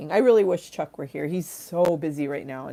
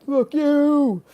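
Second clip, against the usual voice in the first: high mock scold; 10 semitones higher, 6 dB louder than usual. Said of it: "They're like".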